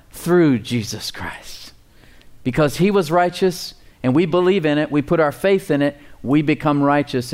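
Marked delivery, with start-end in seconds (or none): 0.1-1.7 "Through" slow and heavy; stress on THROUGH. Shown as a demonstration. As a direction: answer with weight on "Through". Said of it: "How do we please God?".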